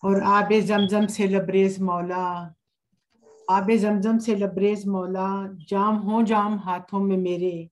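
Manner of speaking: unhurried, measured verse with pauses; poetry recitation. Acted. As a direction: lay each line out gently for the audience. Recites her hamd at a mushaira.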